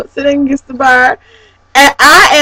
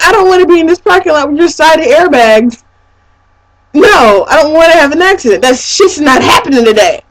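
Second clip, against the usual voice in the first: retold indignant protest; 5 semitones higher than usual. Acts out protest at bad driving.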